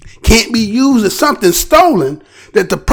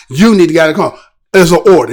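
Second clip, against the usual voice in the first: stern officer order; 6 semitones lower, much faster than usual. Retold or imitated. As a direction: lower firm command.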